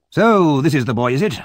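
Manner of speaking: put-on high, loud, fierce old man; a fierce old gentleman sizing up the boy; gruff old gentleman. Grimwig inspects Oliver.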